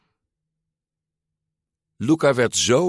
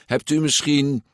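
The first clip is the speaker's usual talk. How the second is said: higher, courteous question; polite asking; 7 semitones higher than usual. A narrator's reading. Luca asking the farmer's wife for help, polite. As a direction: begin a polite request. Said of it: "vroeg Luca beleefd".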